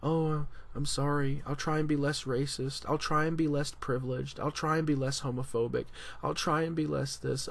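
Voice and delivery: half-hearted sing-through of repeated apologies; mock begging forgiveness. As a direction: recite mock apologies like a tired list. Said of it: "mentally trying to beg forgiveness".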